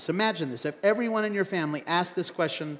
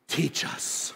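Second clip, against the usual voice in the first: awed friends; 4 semitones lower, 5 dB quieter than usual. Pretend.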